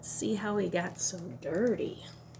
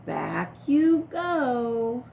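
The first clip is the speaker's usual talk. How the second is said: slow singsong; 5 dB louder, much slower than usual. Acted. Sending dinosaur back to tub.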